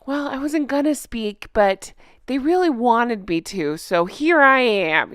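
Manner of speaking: lightly voiced coy excuse, slow at the end; a touch of false humility; lightly mimicking a celebrity's excuse; mock fake modesty. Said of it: "my other prediction is it'll be".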